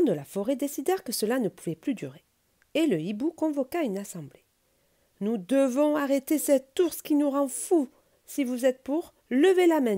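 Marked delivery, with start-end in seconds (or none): 5.2-10.0 owl calling the meeting, higher and louder; rally the assembly like a wise old owl. A narrator's reading. Owl addressing the forest animals, raised rallying voice. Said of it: "dit le hibou".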